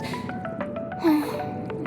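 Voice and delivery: soft breathy sigh; wistful sigh. Acted. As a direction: sigh quietly, missing someone. Sighs, missing a friend.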